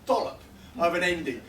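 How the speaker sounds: limp, sorry anticlimax; sad, soggy. Shown as a demonstration. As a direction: let each word droop apologetically. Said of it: "going for the feel of a sad".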